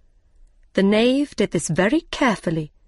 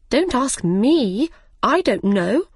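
not very polite; 5 semitones higher than usual. Acted. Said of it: "not very politely".

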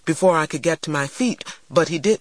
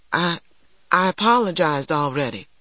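frightened; 2 semitones higher than usual. Acted.

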